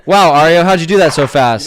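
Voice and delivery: put-on high, loud gee-whiz kid; wholesome 1950s kid. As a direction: play an amazed 1950s kid. Mock amazed praise of cooking.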